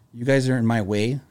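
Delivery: toned-down grumble; same words, temper coming down; a hint of a settling driver; calmer complaint. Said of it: "his tone started to go down".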